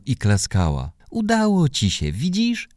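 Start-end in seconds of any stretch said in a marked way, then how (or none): 1.1-2.7 much higher, overjoyed mother's voice; mother hugs daughter after her first slide, delighted; joyful mother. A narrator's reading. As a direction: praise your daughter, bursting with joy. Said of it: "zawołała".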